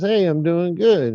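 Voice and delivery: a hint of a joke-teller's cow voice; talking cow. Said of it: "Cow says".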